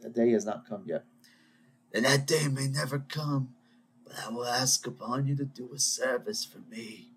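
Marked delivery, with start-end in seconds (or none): 1.9-7.1 a hint of a solemn mob boss, lightly voiced; intoning a mock Godfather vow, then failing; bad Godfather line. To listeners, half-hearted mob boss solemnity. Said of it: "that was terrible".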